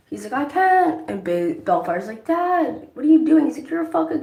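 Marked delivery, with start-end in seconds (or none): 0.3-1.1 high-pitched retold refusal; mock panic. Acting out scared father's refusal. 2.3-3.5 high, loud retold protest; mock distressed outcry. Son confronts father at portal. 3.7-4.2 high-pitched retold outburst; mock accusation. Son accuses father of cowardice.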